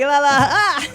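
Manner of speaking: loud, playful mock-startled cry; babble, then yelp as if suddenly snagged; hammed-up retold fright. Acts out getting caught by magnet.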